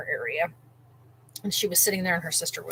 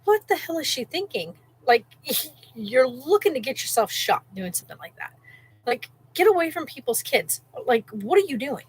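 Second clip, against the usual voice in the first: incredulous; 4 semitones higher than usual. Retold or imitated. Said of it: "and I just went".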